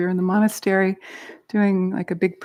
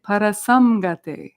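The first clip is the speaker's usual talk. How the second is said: slow, drawn-out phrase for repeating; call-and-response model; slower than usual. Shown as a demonstration. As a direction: lead the group slowly, leaving room to echo. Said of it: "repeat after me".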